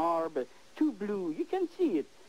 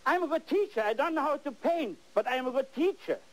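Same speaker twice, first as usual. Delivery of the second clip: higher, smug boast of a bad teacher; mock bad teacher; 6 semitones higher than usual. Imitating bad art teachers to his students, mildly. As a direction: mimic the proud teacher who can't paint. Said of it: "they would even say".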